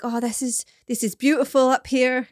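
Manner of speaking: attempted London accent slipping into Yorkshire; botched London accent. Podcaster mimicking a London visitor admiring the view, botched English accent. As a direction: badly imitate a London man's accent. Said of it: "I can't do that accent. That was so Yorkshire".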